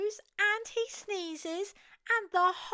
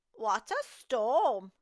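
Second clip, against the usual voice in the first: wren voice; 10 semitones lower, slower than usual. Acted. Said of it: "twitters wren".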